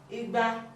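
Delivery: "Igba" mid tone on both syllables. Shown as a demonstration.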